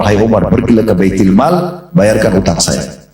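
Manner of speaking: slow, even and unhurried; lightly voiced calm prophet, no trace of anger. Prophet calmly tells Umar to pay the debt, slow and even. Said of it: "dengan sangat tenang mengatakan pada Umar".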